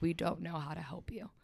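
hushed whisper of a worried brother. Retold or imitated. Her brother speaking to her as she cried, a whisper. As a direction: breathe it out, gently desperate. Brother's words at tearful moment.

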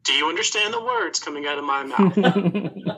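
over-enunciated, slow and careful; slow and deliberate. Acted. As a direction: spell each word out to a foreigner. Robot speaks slowly to strangers.

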